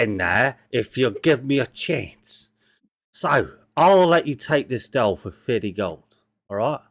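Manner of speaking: put-on a kid trader slipping into a rough local accent; lightly put-on street-kid accent; accidental accent. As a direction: haggle like a cheeky market boy in a put-on accent. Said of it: "I don't know why I've turned into this accent".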